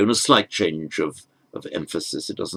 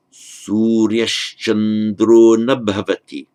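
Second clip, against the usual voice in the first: slow careful reading; 5 dB louder, slower than usual. Shown as a demonstration. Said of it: "With Sandhi now and Iti".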